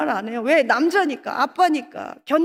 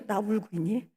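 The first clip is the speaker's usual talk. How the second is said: mock soft mirror line; 6 semitones lower, 8 dB quieter than usual. Man at mirror, mock sad.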